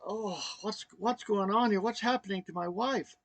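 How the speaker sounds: mildly upset, reliving the dismay; retold near tears. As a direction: act out helpless worry, lightly. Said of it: "I almost started crying".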